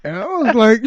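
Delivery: laughing while talking. Real, not acted.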